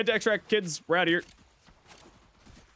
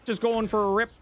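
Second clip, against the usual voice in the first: Canadian hick accent; 6 semitones higher than usual. Shown as a demonstration. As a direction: do a rural Canadian good ol' boy. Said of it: "What does a Canadian hick sound like?".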